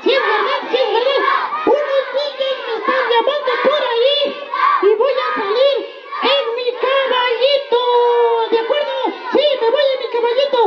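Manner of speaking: put-on bright, high little boy voice, playful; a cheerful five-year-old puppet; child puppet voice. (voz de niño títere alegre)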